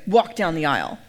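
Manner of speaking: low, deliberate mock-stern command; lightly imitated stern reverend; serious officiant order. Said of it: "she was very serious about her job".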